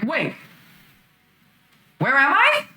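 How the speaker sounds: put-on bewildered young woman, just waking up; confused girl voice. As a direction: ask it dazed and lost. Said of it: "Lily is back to her normal self and is like".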